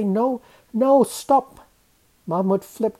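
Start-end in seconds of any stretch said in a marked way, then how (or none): 0.0-1.6 high, urgent cry to stop; panicked shout of protest; yelled protest. A narrator's reading. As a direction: call out in alarm, louder and higher. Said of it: "We yelled".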